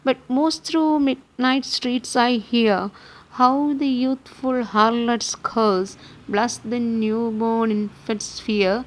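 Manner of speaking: measured verse reading, pausing at line ends; lightly lilting, deliberate poetry reading; poem recitation. Acted.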